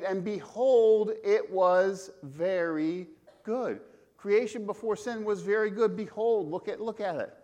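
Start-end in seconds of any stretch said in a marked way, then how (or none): 0.0-3.8 awed proclamation. Acted. Reading Genesis with awe.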